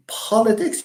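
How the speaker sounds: "politics" with a high, strong PO; stress on first syllable. Shown as a demonstration. Teacher pointing out the stress, "politics" stressed on PO. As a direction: hit the opening PO of "politics". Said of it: "you have stress here".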